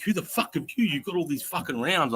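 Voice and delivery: mock angry guard. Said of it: "they're like".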